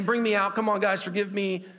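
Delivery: high, loud call for help; crying out. Acted. Joseph calling up loudly from the pit, begging forgiveness. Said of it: "he's crying out to them saying".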